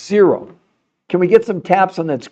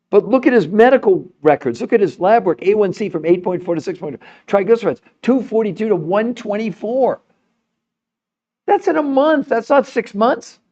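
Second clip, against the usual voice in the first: excited; 7 semitones higher than usual. Real, not acted. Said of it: "I probably do get too excited".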